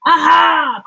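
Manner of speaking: triumphant cry. A narrator's reading. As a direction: crow in triumph. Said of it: "cried Dingo".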